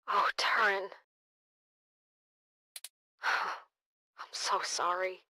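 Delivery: whispered, grief-stricken apology; slow, soft and broken with sorrow; sad. Acted. Grieving over a friend's death.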